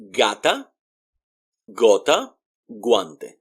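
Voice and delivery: gata, gota, guante with g as in go; "GAH-ta, GOH-ta, GWAN-teh" for gata, gota, guante; hard G sound. Shown as a demonstration. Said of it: "like the letter G in the word go".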